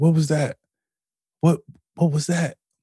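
play-acted crying, stunned, overwhelmed voice. Recounting a moment that brought them to tears; retelling own crying. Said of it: "so like I'm crying".

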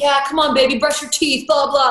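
put-on pushy coach voice, yelling, motivational. Acting out what people imagine he says at home: imitating someone yelling to motivate. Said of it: "yelling at me, like, to motivate me".

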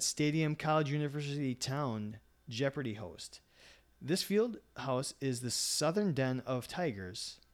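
ordinary talk

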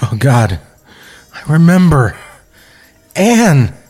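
weeping, sobbing. A man at the edge sinks to his knees, crying. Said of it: "I'm crying in character".

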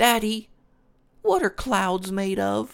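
put-on very high, sing-song, not-so-good little girl voice. Narrator telling a story, voicing the daughter asking her father: not very good little girl's voice. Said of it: "I don't do a very good girl's voice".

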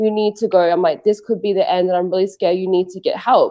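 acted-out hysterical, tearful, crying voice. Retelling begging someone to go get help, reenacting hysterical begging. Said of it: "I'm begging, I'm crying, I'm begging, I'm like hysterical".

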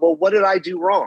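ordinary talk, nothing marked

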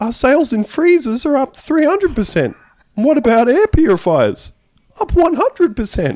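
put-on warbly voice. Retrying a quote after being told more warble: bad Gerry Harvey impression. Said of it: "someone has done a voice and haven't been, like, g-, good".

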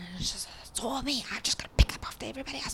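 soft, griping mumble under the breath. Recalling griping to oneself while others sit on the couch, retelling mumbling under breath. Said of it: "mumbling under my breath".

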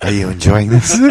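play-acted creepy, unsettling delivery. Repeating Chris's line back to him, imitating a creepy voice. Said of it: "that was so creepy".

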